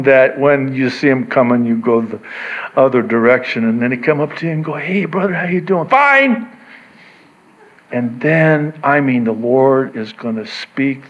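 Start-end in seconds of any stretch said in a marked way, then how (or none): 4.7-5.9 higher-pitched, hurried mock greeting; unwelcome greeter. Imitating the person one avoids. 5.9-6.5 high, abrupt mock "fine"; forced cheerful reply. Acting the evasive reply to greeter.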